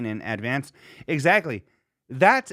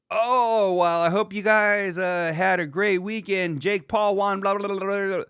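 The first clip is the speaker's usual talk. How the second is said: high, upbeat radio babble; mock host patter; 7 semitones higher, 3 dB louder than usual. Pre-recording a weekend recap too early, mock host patter.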